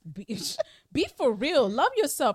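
mock-serious rally cry; emphatic advice. Real, not acted. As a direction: preach it to the audience.

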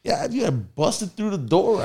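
high, slow emphatic telling. Retold or imitated. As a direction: insist on what you did. Explaining to friend.

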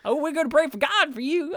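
high sweet church lady; old lady voice. Retold or imitated. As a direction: chirp it like a pious granny.

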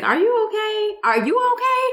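high, mock-worried voice; mock concern. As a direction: pitch way up like fussing coworkers. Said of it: "They was like".

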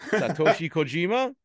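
"Satoshi Kojima" said carefully in Japanese style; careful Japanese pronunciation. Shown as a demonstration. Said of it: "say it for me, please".

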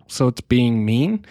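slow, lightly imitated kid question; a hint of a puzzled child, drawn out; child checking meaning. Kid answering parent's sarcasm explanation, puzzled child voice. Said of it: "and they go".

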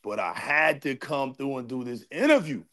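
echoey shop sound; big hall echo. Real, not acted. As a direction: talk in an echoing garage. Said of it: "echoing. I'm in the shop".

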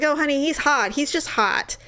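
mildly placating excuse to a partner; lightly imitated boyfriend. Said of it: "He's like".

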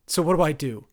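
mother desperately asking her son; desperate loud question. Acted. Mother desperate mid-argument.

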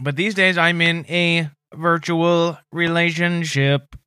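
slow, even robotic monotone. Acted. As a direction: speak like a flat machine. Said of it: "if you keep talking in that robot voice".

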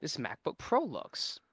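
put-on high, wavering old lady voice. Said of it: "She went".

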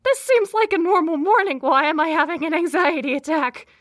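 high, loud panicky voice; rising alarm, voice shooting up; panicked. Retold or imitated. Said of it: "I was like".

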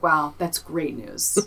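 slow, drawn-out mock enthusiasm; sarcastic. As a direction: stretch it out, dripping with sarcasm. Sarcastic reply to Quinn's news.

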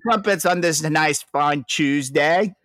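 hammed-up jolly Brit offering tea-time treats; mock British accent. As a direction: put on a jolly British host voice. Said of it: "as jolly and British".

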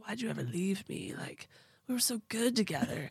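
imitating a creepy ex; creepy, clingy retold plea; creepy pleading. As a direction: wheedle like a creepy old flame. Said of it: "creepy and being like".

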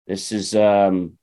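ordinary talk

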